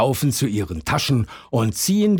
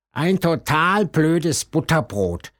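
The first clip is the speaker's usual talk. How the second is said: grumbling; 5 semitones higher than usual. A narrator's reading. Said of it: "schimpft sie".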